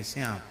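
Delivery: "श्यांप" low and soft, with a shya glide; dialect pronunciation. Shown as a demonstration. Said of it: "श्यांप बोलेंगे".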